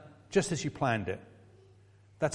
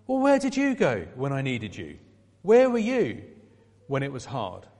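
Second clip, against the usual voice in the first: reproachful question; 3 dB louder than usual. Pretend. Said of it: "His first words are not of judgment or condemning".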